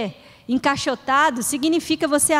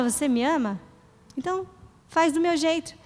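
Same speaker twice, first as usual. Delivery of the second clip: tender Jesus; 5 dB quieter than usual. Retold or imitated. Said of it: "Então ele fala".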